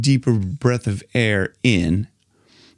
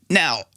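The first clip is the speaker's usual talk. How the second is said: gasp; 3 semitones higher than usual. Shown as a demonstration.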